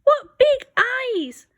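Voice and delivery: high, slow, amazed; gasp of surprise. A narrator's reading. Red startled by the wolf's eyes, gasping. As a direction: gasp it out wide-eyed. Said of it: "Red gasped".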